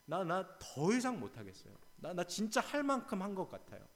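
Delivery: a hint of exhausted Elijah begging God; Elijah's weary voice. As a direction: plead as if you can't go on. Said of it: "엘리야의 이 목소리를 들어보세요".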